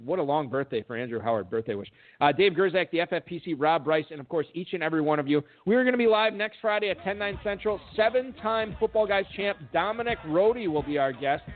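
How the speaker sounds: lively announcer-style credits and plugs; show host sign-off. Acted. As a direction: rattle off the thanks like a radio host. Reads show credits and promotion.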